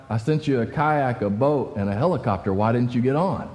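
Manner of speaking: God's reply. Retold or imitated. God answers the drowned man.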